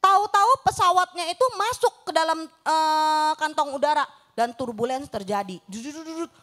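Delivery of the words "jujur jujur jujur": hushed emphasis. Retold or imitated. Telling scary turbulence story.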